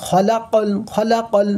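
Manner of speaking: খলাকল in three short, even syllables; no stretching. Shown as a demonstration. Quran teacher showing short vowels, no stretching. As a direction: keep খ, লা and ক unheld in খলাকল. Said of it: "এখানে খ টান হবে না".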